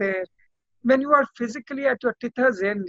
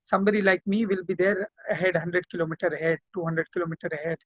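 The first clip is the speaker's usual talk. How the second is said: reassuring; 3 semitones lower than usual. Retold or imitated. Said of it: "tell them".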